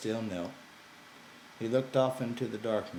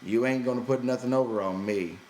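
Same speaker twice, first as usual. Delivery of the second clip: sharp, louder retort; snapping; 5 semitones higher, 7 dB louder than usual. A narrator's reading. George refusing to be tricked by Lenny, snapping louder. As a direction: bite it off, annoyed. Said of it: "George snapped".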